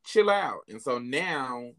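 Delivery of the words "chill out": self-calming. Retold or imitated. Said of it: "And I'm just like".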